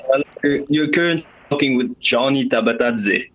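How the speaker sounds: usual speaking voice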